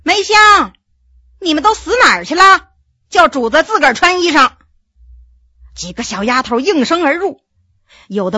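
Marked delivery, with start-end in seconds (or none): 0.0-4.5 higher-pitched scolding call. A narrator's reading. Wife summoning the maids to dress their master, scolding call. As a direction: call sharply to servants in the next room. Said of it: "冲外面喊了一声".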